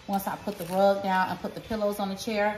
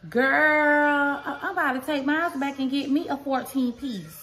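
mock whine; 4 semitones higher than usual. Jealous of Jordan's bedding.

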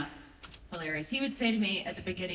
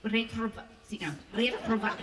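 Russian-sounding attempt. Shown as a demonstration. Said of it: "I sound Russian".

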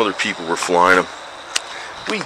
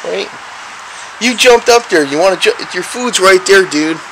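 pet talk; 10 semitones higher, 3 dB louder than usual. Real, not acted. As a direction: chirp it up high like cooing at a kitten. Talking to the cat.

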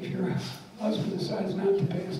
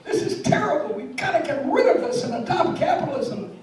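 much higher, loud angry rant; furious shout; 9 semitones higher, 6 dB louder than usual. Acted. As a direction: yell at the communist system in rage. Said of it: "Starts shouting".

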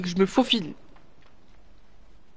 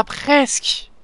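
slow, stretched, higher "Ah, presque" with a rise on "ah"; drawn-out near miss; 5 semitones higher than usual. Real, not acted. Gamer groaning at a near miss, stretched and rising. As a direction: savour the almost-win.

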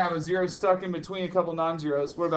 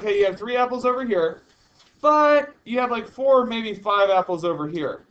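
mock vague teacher; 2 semitones higher, 5 dB louder than usual. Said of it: "What if I was like".

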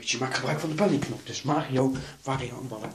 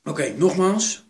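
loud, slow emphatic repeat; 4 semitones higher, 11 dB louder than usual. Real, not acted. Player repeating the rule to the boys, loud and slow. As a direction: call it out loud and slow, higher. Game instruction repeated loudly.

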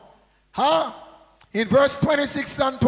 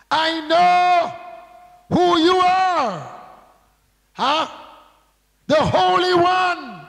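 slow, higher, lightly voiced demon pleading; 3 semitones higher, slower than usual. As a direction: read it as a hint of a cornered unclean spirit, slowly. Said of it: "And he cried out".

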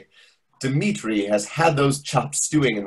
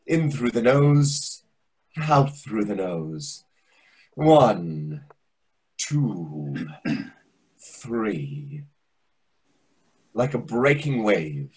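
unhurried breathing coach easing nervous diners; calm breathing guide; 4 semitones lower, slower than usual. Acted. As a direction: talk them down into slow breaths like a yoga teacher.

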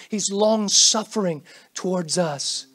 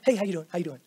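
offhand hello; 3 semitones lower, 5 dB quieter, much faster than usual. Retold or imitated. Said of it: "We do that with, what".

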